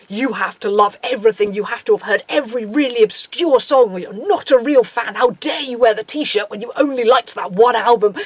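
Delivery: imitated gatekeeping fan, emphatic and scolding; hammed-up fan reproach; mock indignation. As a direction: lay down the law like an affronted superfan. Mimics gatekeeping fans.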